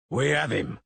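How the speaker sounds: yell. Acted. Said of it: "the masons yelled".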